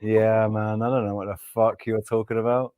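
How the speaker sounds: low, deadpan imitation of a lost listener; blank incomprehension. Imitating a Spanish speaker lost in English, low blank delivery. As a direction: drop it low, mock bewildered. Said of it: "looking at you with this blank stare".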